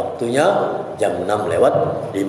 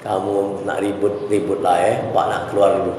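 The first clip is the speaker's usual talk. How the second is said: calm teacher. Shown as a demonstration. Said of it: "lain lagi tekniknya".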